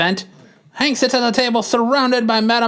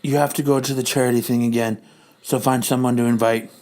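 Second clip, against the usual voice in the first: a sly villain queen giving orders; Madam Hydra voice; 9 semitones lower than usual. Acted.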